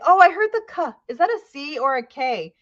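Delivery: a hint of an eager young student. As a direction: pipe up like a kid who just noticed. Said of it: "the students are gonna say".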